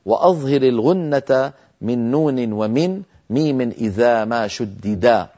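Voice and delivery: ترتيل بيت الجزري ببطء; أنشد البيت كما في المتن; إنشاد متن الجزرية. Shown as a demonstration. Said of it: "بقول إمامنا الجزري لما قال". (إنشاد متن تجويدي مرتّل)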